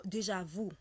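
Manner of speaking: "déjà vous" with oo ending for déjà vu; "vous" with oo instead of French u; American mispronunciation. Retold or imitated. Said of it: "say it the American way".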